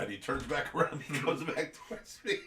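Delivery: normal talking voice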